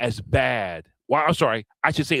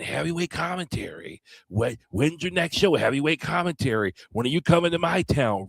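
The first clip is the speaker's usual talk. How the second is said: imitating eager fans; 5 semitones higher than usual.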